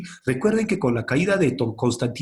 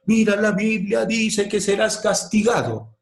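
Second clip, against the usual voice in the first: raised pitch, lightly voiced warning priest; mock stern clergyman; 7 semitones higher than usual. Teacher voicing clergy scaring the unlettered people, mock stern. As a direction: threaten the flock, half-playful.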